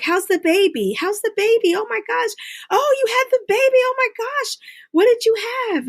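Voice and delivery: high, gushing, excited coworker voice; squealing, delighted mock coworker. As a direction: gush like a thrilled coworker asking about the baby. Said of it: "they're just like".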